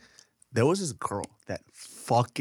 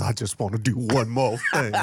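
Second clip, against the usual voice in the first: dying veteran; 4 dB louder than usual. Pretend. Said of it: "Right before he dies, he goes".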